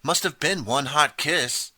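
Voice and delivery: high, slow, teasing cheerleader voice; slow teasing joke; joking. A narrator's reading. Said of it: "one of the cheerleaders joked".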